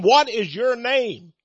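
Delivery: slow, measured command in a preacher's retelling. Retold or imitated. Jesus demanding the demons' name, retold commanding. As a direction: put firm weight on each word. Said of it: "Jesus commanded of them".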